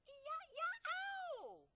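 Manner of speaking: high, loud yelp of pain; roar. A narrator's reading. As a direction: howl it out like a tormented giant. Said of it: "roared the flesh lump eater".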